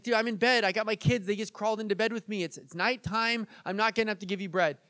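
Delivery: acted grumble from someone stuck in bed; protesting friend. Friend in bed refusing a late caller, mildly exasperated.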